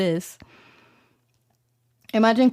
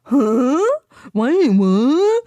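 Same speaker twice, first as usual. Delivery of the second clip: puzzled Italians; 5 semitones higher, 4 dB louder, much slower than usual. Retold or imitated. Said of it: "the Italians turned around and were like".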